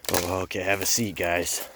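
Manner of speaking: lightly voiced principal, formal and polite; a hint of a stiff, formal principal inviting them to sit; principal's voice. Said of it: "That's his voice, by the way".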